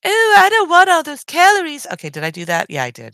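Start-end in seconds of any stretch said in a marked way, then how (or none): 0.1-1.9 high, fussy dieter voice; calorie-counting dieter. Retold or imitated. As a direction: whine about calories like a picky dieter. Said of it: "if you're going with, like, the".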